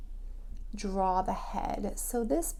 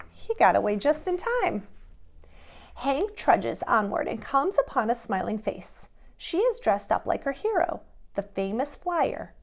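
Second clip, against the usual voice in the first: lively, bouncy picture-book narration; animated storytime read-aloud; reading to children; 2 semitones higher, 3 dB louder than usual. A narrator's reading. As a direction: read it like a bedtime story to little kids.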